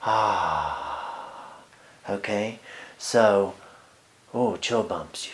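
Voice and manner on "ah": gasp for breath. Retold or imitated. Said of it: "she's kinda giving me like a".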